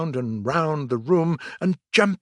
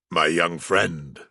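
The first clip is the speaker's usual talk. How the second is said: severe; 7 semitones lower, slower than usual. A narrator's reading. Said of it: "with great severity".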